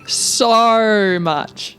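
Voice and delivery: "so" drawn out in a fake Australian accent; attempted Aussie "so". Shown as a demonstration. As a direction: have another go at an Aussie O in "so". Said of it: "Not, not a long O, just a short O".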